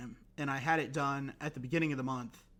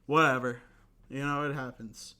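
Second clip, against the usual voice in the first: cracking voice, almost tearful; 5 dB louder than usual. Real, not acted. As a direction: voice cracks on the words. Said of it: "my voice cracked there".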